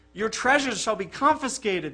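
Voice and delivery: loud, grim imperial decree; grim reply. A narrator's reading. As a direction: pronounce the confiscation grimly. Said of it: "the emperor replied grimly".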